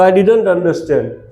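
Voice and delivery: very slow, every word laid out for the class; slow model sentence. Shown as a demonstration. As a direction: say it slowly like a teacher modelling English. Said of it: "તો".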